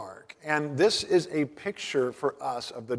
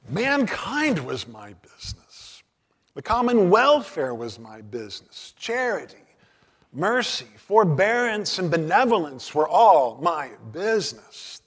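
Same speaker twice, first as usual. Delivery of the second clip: loud, high, anguished ghostly lament; 6 semitones higher, 8 dB louder than usual. Acted. Marley's ghost laments to Scrooge, loud and anguished. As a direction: wail out the ghost's regret. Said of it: "cried the ghost".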